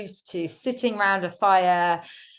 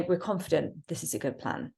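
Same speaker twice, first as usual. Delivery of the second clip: firm, falling and softer; confident statement; 7 dB quieter than usual. Shown as a demonstration. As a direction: state it with authority.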